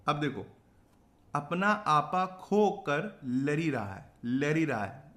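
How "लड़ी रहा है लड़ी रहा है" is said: village Hindi "lari raha hai" with added "i"; village dialect. Shown as a demonstration. Teacher mimicking village speech for a mnemonic, rural dialect. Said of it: "गांव की भाषा बोलते हैं".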